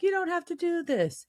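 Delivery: hammed-up worried angel; pleading Cass. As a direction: beg him not to. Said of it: "And Cass is like".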